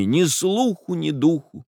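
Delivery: put-on high strained young woman; Nastenka's high voice. A narrator's reading. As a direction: let it catch.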